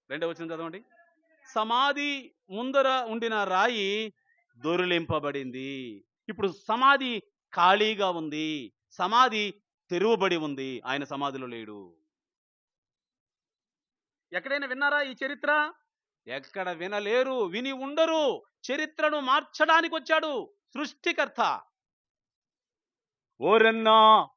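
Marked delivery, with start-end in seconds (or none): 1.5-12.0 slow, loud, high proclamation; slow booming scripture proclamation; preaching at full force. Acted. Preacher reads and proclaims loudly. 14.3-21.6 much higher and louder fiery preaching; preaching at full force. Acted. 23.4-24.3 much louder, higher cry of ఓరన్నా; ఓరన్నా shouted, falling at the end; loud call. Acted. Calls out the song's cry.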